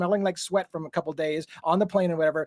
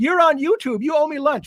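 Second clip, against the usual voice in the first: furious, shrill, loud angry yell; 9 semitones higher, 5 dB louder than usual. Retelling a woman in downtown new york: imitating a woman yelling. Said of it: "the woman that was yelling at me".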